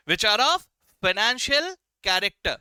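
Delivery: slow, even restatement; teacher repeating the line slowly; slow recap. Shown as a demonstration. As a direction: say it slow and firm. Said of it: "क्या बात किया मैंने?".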